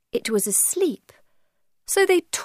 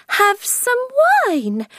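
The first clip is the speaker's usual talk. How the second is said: much higher, slow mocking echo; mocking quote; 13 semitones higher, 4 dB louder, slower than usual. Alice echoing the Hatter's offer, high and mocking. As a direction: mimic his offer back at him. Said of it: "Alice said angrily".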